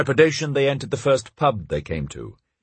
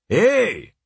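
high-pitched outraged call; crying out; 9 semitones higher, 3 dB louder than usual. A narrator's reading. Baker to a customer grabbing a loaf, crying out. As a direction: call out sharply, high and drawn up. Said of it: "cried the baker".

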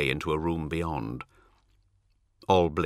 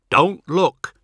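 raised, high-pitched warning; urgent command; 11 semitones higher, 8 dB louder than usual. Acted. Ol warns his frightened companions, urgent raised command. Urging companions amid demonic voices.

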